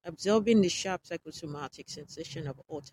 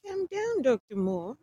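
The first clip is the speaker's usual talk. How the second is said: softened; 7 semitones higher than usual. A narrator's reading. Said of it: "Dick said in a much softened tone".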